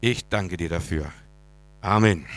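loud, fervent prayer voice. Acted. Pastor praying aloud for the church. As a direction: pray out over the congregation.

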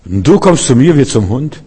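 a hint of a boastful giant, rising question; frecher Goliath. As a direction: brag it but with a touch of fear under it. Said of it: "das große freche Reden". (angeberischer Goliath mit leiser Angst)

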